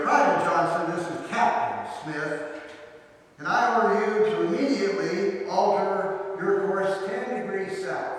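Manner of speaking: retold shout. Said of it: "he shouted back over the radio".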